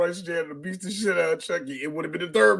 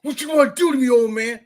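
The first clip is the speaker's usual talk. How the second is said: taunting Chucky; 5 semitones higher, 4 dB louder than usual. Retold or imitated. Chucky taunts old janitor.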